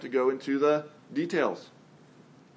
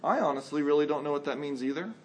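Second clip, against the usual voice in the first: gentle parent; 4 dB quieter, faster than usual. Retold or imitated. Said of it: "it's very fine for you to say".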